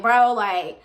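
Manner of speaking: high, loud retold wail of protest; upset whine. Student upset over the missing iPod, wailing in protest. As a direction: whine and plead, pitch climbing very high. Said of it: "I'm upset 'cause I'm like".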